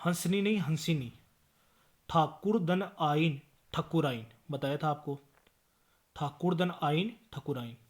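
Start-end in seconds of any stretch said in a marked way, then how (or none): 2.1-3.4 slow breakdown. Shown as a demonstration. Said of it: "spelling out a word's parts".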